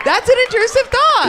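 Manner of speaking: squeaky loud punchline; mock high quip. Real, not acted. Host squeaking out a joke about intrusive thoughts. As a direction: pop the line up high and loud.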